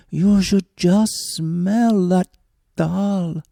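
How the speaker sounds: lightly voiced woodman, dreamy about the dal; woodman tempting.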